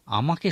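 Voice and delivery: "আমাকে" said alone with a rising lift; stressed word. Shown as a demonstration. Preacher isolating "আমাকে" to show its stress. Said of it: "শব্দটির উপরেও আমরা জোর দিতে পারি".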